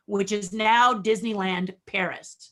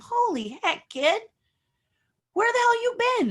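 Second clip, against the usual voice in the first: 2 high, astonished exclamation; 3 act floored by the portfolio; 1 retold amazement; 14 semitones higher than usual. 4 recruiter flipping through portfolio, amazed and high.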